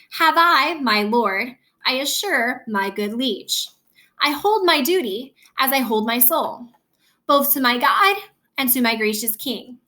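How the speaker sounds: measured Shakespeare recitation, phrase by phrase; verse reading. Shown as a demonstration. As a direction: read blank verse with a deliberate beat. Reads blank verse example aloud.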